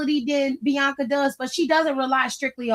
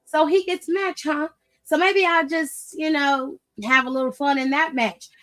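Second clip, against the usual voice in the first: Mason Rook; 3 semitones higher than usual. Retold or imitated. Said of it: "Mason Rook was like".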